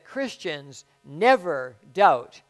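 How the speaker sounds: slow, weighty quote; slow deliberate quotation; quoted slowly. Retold or imitated. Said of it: "that he said".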